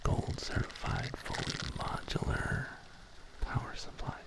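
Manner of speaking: hushed, breathy whisper with lingering pauses; ASMR whisper. Pretend.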